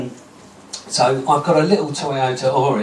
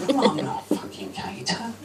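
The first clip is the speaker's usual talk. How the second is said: laughing retort; 6 semitones higher, 5 dB quieter than usual. Retold or imitated. Retorting to catering suggestion.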